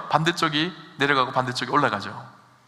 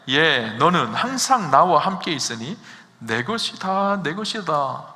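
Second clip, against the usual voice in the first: father's gentle words; slower than usual. Acted. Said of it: "그렇게 말씀하고 있어요".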